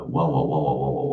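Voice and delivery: low, repeated wah-wah groan; dismayed wow-wow. Real, not acted. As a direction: sink into a deep string of wahs. Cringing at his old accent.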